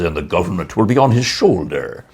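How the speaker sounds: grand, low biblical delivery; booming prophet voice. Shown as a demonstration. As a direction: proclaim it like a prophet. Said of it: "so I have to get into it again".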